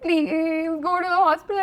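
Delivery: retold plea from an upset mother; mother's plea. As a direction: imitate a mother begging. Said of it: "And she's like".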